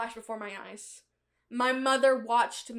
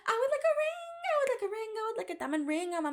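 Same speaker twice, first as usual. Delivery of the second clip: lightly voiced prim shopper; 10 semitones higher, 4 dB quieter, faster than usual. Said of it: "asking clerk in put-on voice".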